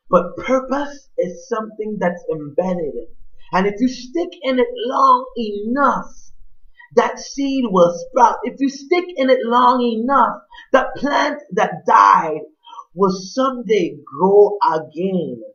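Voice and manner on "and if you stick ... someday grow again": building from firm to a shout on the last lines; rising preaching climax. Real, not acted. Preacher rousing the congregation, building to a shout. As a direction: swell the voice louder line by line, climbing higher.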